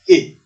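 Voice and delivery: E said as the open "eh" of egg; short E phoneme. Shown as a demonstration. Teacher isolating the vowel of egg, E said as "eh". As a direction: give E the vowel sound in egg. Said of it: "ça se prononce avec le phonème".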